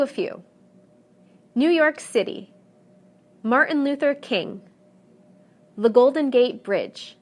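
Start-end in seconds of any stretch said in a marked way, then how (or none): 1.5-7.2 name with main stress on City, King, Bridge at the end; stress on last segment. Shown as a demonstration. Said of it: "the stress will always fall on the last segment".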